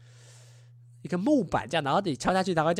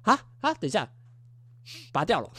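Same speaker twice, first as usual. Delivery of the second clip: shocked surprise; 3 semitones higher, 3 dB louder than usual. Retold or imitated. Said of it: "大家心里就是".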